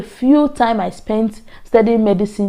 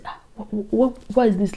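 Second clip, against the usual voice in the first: baffled student; 6 dB quieter than usual. Retold or imitated. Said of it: "I'll just look and say".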